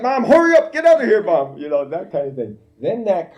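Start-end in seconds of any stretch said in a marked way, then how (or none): 0.0-1.6 high, loud laughing mock panic; panicked kids. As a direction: plead like a frightened kid, half laughing. Boys pleading from back seat.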